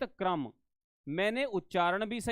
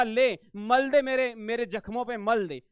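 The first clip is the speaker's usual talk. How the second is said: bitter retort; 2 semitones higher, 5 dB louder than usual. Retold or imitated. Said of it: "कोई कहेगा".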